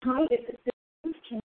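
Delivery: choppy phone line; bad connection. Real, not acted. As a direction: voice breaking up on the line. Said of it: "I can hear you, but you're, uh, breaking up".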